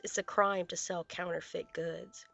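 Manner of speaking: plain reading voice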